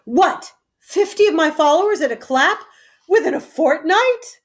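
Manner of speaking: can't believe the news; outraged disbelief. Acted. King learning his knights are cut, outraged.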